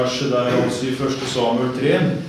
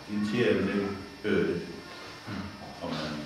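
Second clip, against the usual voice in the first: reverent reading close; 5 semitones lower, 11 dB quieter than usual. Real, not acted.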